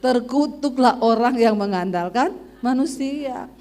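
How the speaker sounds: slow, hammed-up scriptural curse; drawn-out mock denunciation; mock rebuke. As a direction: pronounce it like a solemn judgement. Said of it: "Saya tengking langsung tuh suara".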